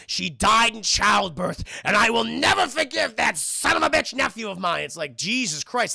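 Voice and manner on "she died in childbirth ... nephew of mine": bitter grieving rant. Retold or imitated. Grieving widower vents bitter grudge.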